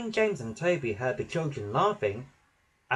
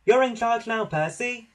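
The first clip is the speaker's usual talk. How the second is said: Lady Hat voice; 9 semitones higher, 4 dB louder than usual. A narrator's reading. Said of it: "said Lady Hat".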